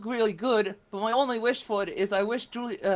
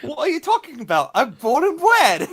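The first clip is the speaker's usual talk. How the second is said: bad Cockney accent; 5 semitones higher, 7 dB louder than usual. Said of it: "do a very bad, uh, Cockney accent".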